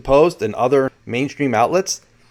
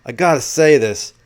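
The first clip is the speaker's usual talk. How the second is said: lightly imitated New York accent, slightly higher; 4 semitones higher, 4 dB louder than usual. Reporter telling Danny about mainstream coverage, light New York accent. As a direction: quote him with a touch of New York. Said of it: "with his New York accent".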